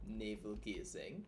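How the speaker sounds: slow, pointed breakdown; slow and deliberate. Shown as a demonstration. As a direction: spell it out slowly. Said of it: "slow mock lecture".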